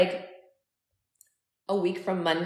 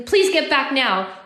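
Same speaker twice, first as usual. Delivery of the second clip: high, loud, slower plea; urgent plea; 7 semitones higher, 5 dB louder, much slower than usual. A narrator's reading. Woman begging her sister to return, urgent plea. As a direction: beg loudly, stretching each word.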